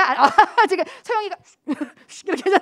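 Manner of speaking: laughing through the words. Real, not acted. Pastor laughing at Seoyoung's quick reaction, laughing. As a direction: break into real laughter mid-sentence.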